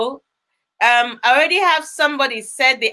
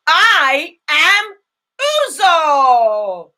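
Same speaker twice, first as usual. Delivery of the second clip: louder, proudly called out; shouting her name; 4 dB louder, much slower than usual. Shown as a demonstration. Teacher showing the class how: shout your name. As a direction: announce your name with pride. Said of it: "You shout your name".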